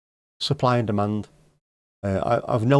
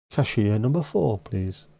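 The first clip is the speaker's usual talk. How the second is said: a flatter repeat of the announcer call, fading on please; bank desk announcer again; slower than usual. Pretend. Repeating the call to the queue, lighter mock announcer. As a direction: repeat the call more offhand. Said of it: "a bank desk announcer".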